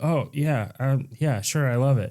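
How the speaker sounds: imitating a softly hesitant, unconvincing yes; half-hearted, placating little agreement; reluctant agreement. Woman humouring him while backing away, mild feigned enthusiasm.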